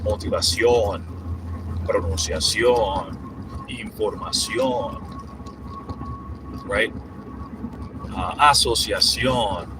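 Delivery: slow Spanish words, stress on the O; teacher listing Spanish cognates slowly; Spanish pronunciation. Shown as a demonstration. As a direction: read the list slowly, Spanish style. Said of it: "stress and the O".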